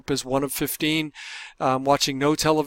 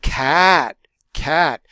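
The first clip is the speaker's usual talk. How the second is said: laughing correction; 2 semitones higher, 6 dB louder, slower than usual. Retold or imitated. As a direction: correct the child gently with a laugh. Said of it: "adults will probably laugh and go".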